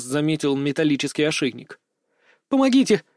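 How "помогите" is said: high desperate cry for help; sobbing plea. A narrator's reading. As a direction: beg through sobs. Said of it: "всхлипнув, взмолилась она".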